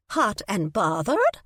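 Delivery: put-on slow, sly old lady tease; teasing old lady. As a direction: tease her like a cheeky granny. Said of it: "the old lady teased".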